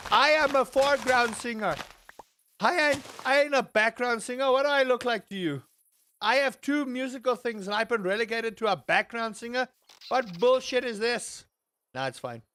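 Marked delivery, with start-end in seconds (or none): 0.1-11.5 mock indignation. Mock outrage at background singer role.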